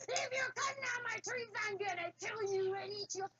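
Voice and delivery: high, mock-menacing troll threat; roaring troll. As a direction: ham up a screaming troll. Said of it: "screaming and roaring at him".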